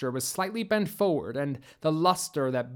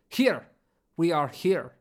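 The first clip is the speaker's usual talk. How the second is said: shout. Acted. Bellry revealing their hiding place, a raised shout. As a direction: call out to give yourselves up. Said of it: "Bellry shouted".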